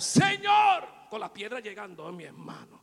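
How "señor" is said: Stephen crying out to the Lord, high and loud. A narrator's reading. Stephen cries to God while stoned, loud. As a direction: call out to heaven. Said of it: "clamó a gran voz".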